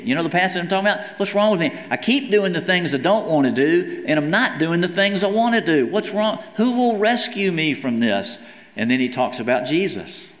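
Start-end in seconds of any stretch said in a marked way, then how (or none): 1.2-8.4 higher, pleading cry of a man at war with himself; anguished lament. Acted. Paul crying out over the sin inside him, anguished and higher. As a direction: voice Paul's despair, raised in pitch. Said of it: "Paul's lamenting the sin inside".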